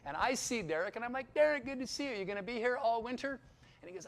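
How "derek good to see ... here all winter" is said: bright, raised, eager hello; cheery greeting. Retold or imitated. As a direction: greet an old friend with glee. Greeting a friend, retold.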